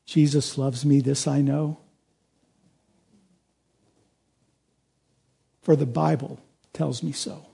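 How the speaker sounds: low, soft, with a hint of Swiss German; Swiss German accent. Preacher quoting Barth's answer to a student, Swiss German accent. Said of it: "in his Swiss German accent, he said".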